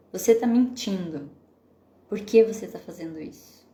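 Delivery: firm, accusing demo of a parent; confronting accusation. Shown as a demonstration. Mother confronts lying child, accusing and firm. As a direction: point the finger at the liar. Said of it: "a gente diz isso dessa maneira?".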